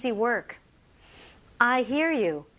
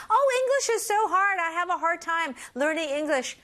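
higher-pitched complaint about English; mock frustrated learner; 5 semitones higher than usual. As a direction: play a tired student whining a little.

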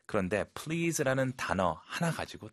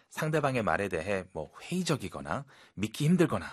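usual speaking voice

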